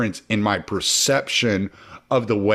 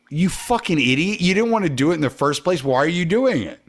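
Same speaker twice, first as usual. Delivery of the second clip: high-pitched exasperated self-scolding, not shouted; mock self-cussing; 6 semitones higher, faster than usual. Man cussing himself while doing something, retold scolding. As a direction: berate yourself in a raised pitch. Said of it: "I'm cussing myself as I'm doing it".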